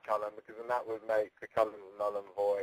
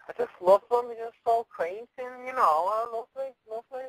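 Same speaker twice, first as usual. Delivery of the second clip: gushing; 14 semitones higher than usual. Real, not acted. Gushing about Scouse girls.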